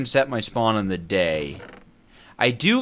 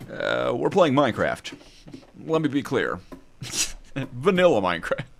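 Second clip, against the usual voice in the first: Obama impression. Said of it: "That's my impression of, uh, Obama".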